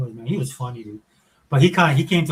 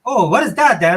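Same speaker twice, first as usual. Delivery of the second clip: puzzled daughter; 7 semitones higher, 8 dB louder than usual. Retold or imitated.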